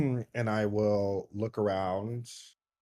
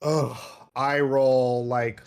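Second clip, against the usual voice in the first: exasperated eye roll; slower than usual. Acted. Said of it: "the physicality will be like".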